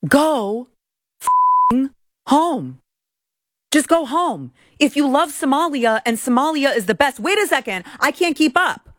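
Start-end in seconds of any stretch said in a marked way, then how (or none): 0.1-4.5 angry yell. Real, not acted. Host yelling at the Somali women in the clip, furious. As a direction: spit it out in real anger.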